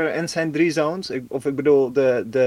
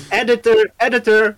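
calling out; 8 semitones higher, 7 dB louder than usual. Pretend. Calling for the editor jokingly.

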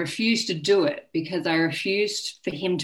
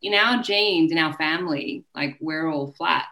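mother consoling her teenage daughter, lightly voiced; gentle mum. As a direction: play mum gently breaking bad news. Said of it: "And she's like".

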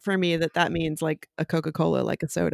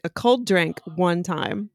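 slow confused echo; much slower than usual. Retold or imitated. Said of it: "And I was like".

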